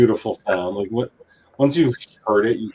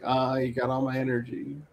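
whiny rapper impression; 3 semitones higher, 5 dB quieter than usual. Retold or imitated. Player explaining the song joke, soft whiny impression. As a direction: do a softly whiny singer's voice. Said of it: "So for that whiny rapper, rapper voice".

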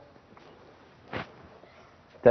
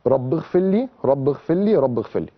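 prayer recitation; 2 semitones lower than usual. Shown as a demonstration. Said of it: "بنقول فيها إيه بقى؟".

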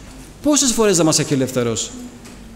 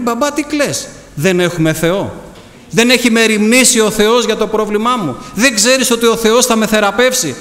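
impassioned sermon, pitched up from the calm storytelling; fervent preaching; 4 semitones higher than usual. Acted. Preacher urging the congregation to trust God through troubles, fervently. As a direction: preach it with urgent, insistent questions and answers.

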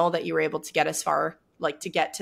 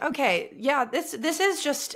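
playful inner voice; 9 semitones higher, slower than usual. Retold or imitated. Voicing athlete's thoughts playfully.

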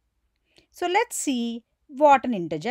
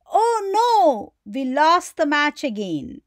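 dismayed; 2 semitones higher, 3 dB louder than usual. Shown as a demonstration. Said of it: "you're feeling sad that we lost".

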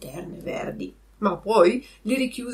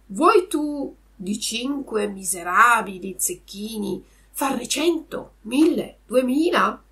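tempting fox; 3 semitones higher, 4 dB louder, slower than usual. Acted. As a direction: draw out each bigger sum to entice. Fox builds up the tempting offer. (volpe allettante, lenta e crescente)

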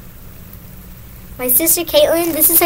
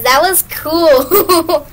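laughing; 4 dB louder, much slower than usual. Real, not acted. Laughing after helium.

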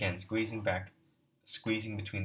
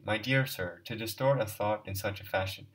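irritated; 4 dB louder than usual. Acted. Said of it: "cried out angrily and irritably".

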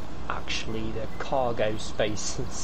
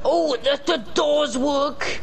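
excited; 12 semitones higher, slower than usual. Real, not acted. Amazed at working car doors.

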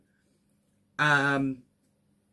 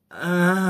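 frustrated groan; 4 dB louder than usual. Real, not acted. Long groan of frustration over booking.

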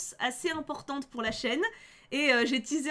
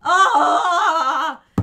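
loud oh shout; 2 semitones higher, 13 dB louder, slower than usual. Real, not acted. Reacting to the rival girl on screen, loud oh cries. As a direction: wail oh oh oh at the screen.

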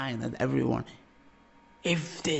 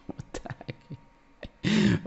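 mock queenly disbelief, drawn out slowly, pitched higher; Sansa's what the heck; 8 semitones higher, much slower than usual. Imitating Sansa asking what the heck at the council. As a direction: stretch it like a scornful queen. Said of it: "she said this".

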